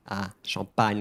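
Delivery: "A" as "ah", then "Champagne" as "shahn-PAN-y"; French vowel demo. Shown as a demonstration. Teacher explaining the vowel, French "ah" in "Champagne". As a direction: open the "A" in "Champagne". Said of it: "not E, A".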